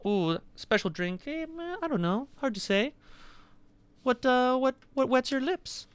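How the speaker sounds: high, creaky greedy waiter voice; creaky greedy chomping chest. Acted.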